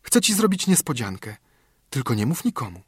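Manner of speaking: put-on a small girl sharing a secret, then hushing; little friend whispering a surprise; excited little girl. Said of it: "ze wzruszeniem".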